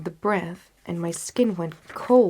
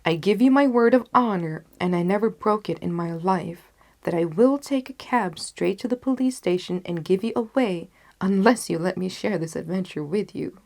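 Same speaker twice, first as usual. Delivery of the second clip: louder, firm Watson; firm, louder doctor's ultimatum; Watson insistent; 5 dB louder than usual. Acted. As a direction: dig in and refuse to be left out.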